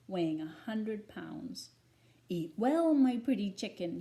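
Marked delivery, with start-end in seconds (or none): 2.3-4.0 wolf crying out. A narrator's reading. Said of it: "he cried".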